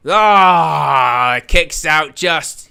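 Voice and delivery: a loud gasp that spills into the call; excited outburst. Real, not acted. Watching the kickout live, a loud excited yelp. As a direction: shout it as the kickout lands. Near fall, kickout at two.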